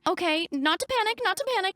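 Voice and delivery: acted, lightly freaking out; mild mock panic. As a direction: talk yourself down from a small panic. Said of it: "kind of freaking out".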